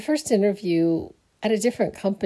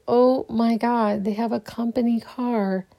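amazed; 4 semitones higher than usual. Retold or imitated. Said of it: "I'm like".

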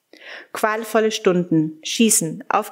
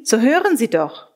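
insistent call falling at the end; the call pressed home with a falling end; urgent call; 3 semitones higher than usual. Acted. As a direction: press them to listen, urgently. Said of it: "Jemand rief mir zu".

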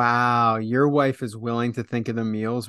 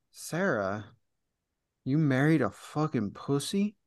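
put-on New York accent; 7 dB quieter than usual. Father-in-law confronting his daughter Sarah, disgusted New York accent. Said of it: "In, like, a New York accent".

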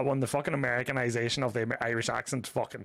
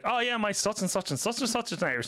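higher-pitched mock enthusiastic foreigner; Wisconsin guy claiming Irishness; 6 semitones higher than usual. Imitating a guy met in Wisconsin, higher-pitched mock eagerness. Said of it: "a guy in Wisconsin and he was like".

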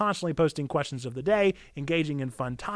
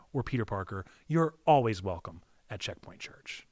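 Willem Dafoe impression; 8 semitones lower, 5 dB quieter than usual.

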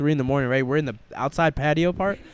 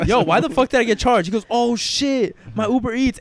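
alarmed realisation; 4 semitones higher than usual. Retold or imitated. Waking to find a charge.

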